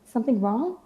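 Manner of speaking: concerned coworkers. Retold or imitated.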